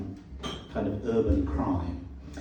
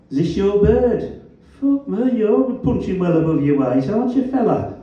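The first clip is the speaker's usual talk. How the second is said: put-on Black Country accent; 10 semitones higher, 6 dB louder than usual. A narrator's reading. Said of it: "His black country accent was as vowelish as ever".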